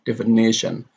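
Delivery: "definition" as defi-NI-tion; stress before -tion. Shown as a demonstration. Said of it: "The same is here".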